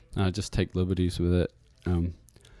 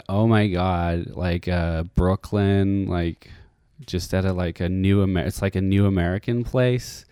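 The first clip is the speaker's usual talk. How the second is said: put-on American accent, louder, drawn out at points; mock American chatter, pushed louder; American accent impression; 6 dB louder than usual. Shown as a demonstration. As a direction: do a gushing Brooklyn American impression. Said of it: "I can do a little bit like that thing".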